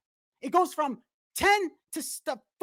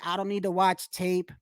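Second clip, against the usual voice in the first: mock boastful fighter; 4 semitones lower than usual. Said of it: "all that saying".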